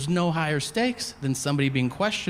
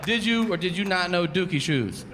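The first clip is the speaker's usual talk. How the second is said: serious detective; 4 semitones higher than usual. Retold or imitated. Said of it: "detectives insist on using the suspect's street name".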